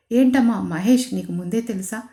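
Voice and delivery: mild surprise at the news; surprised question. Acted. Grandfather surprised to learn she already knew Mahesh. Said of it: "అని ఆశ్చర్యంగా అడిగాడు".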